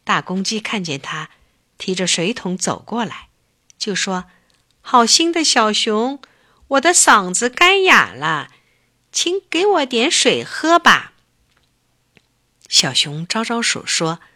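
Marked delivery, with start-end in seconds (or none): 4.8-11.1 louder, higher rooster plea; a parched rooster asking politely; thirsty rooster. Acted. Rooster begs the bear for water, lightly voiced plea.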